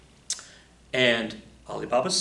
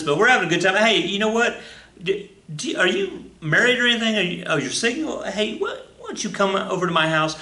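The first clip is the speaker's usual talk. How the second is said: eager invite; 8 semitones higher, 3 dB louder than usual. Acted. Son invites friendly competitor.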